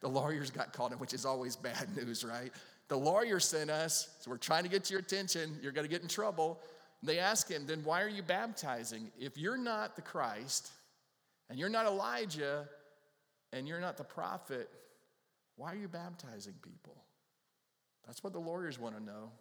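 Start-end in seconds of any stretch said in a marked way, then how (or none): 2.9-6.6 louder, higher threatening warning; warning envoys. Acted. Envoys warning John he is in trouble, louder. 7.6-17.0 higher, insistent cross-examination; questioning lawyers. Acted. Lawyers cross-examining John, higher and insistent.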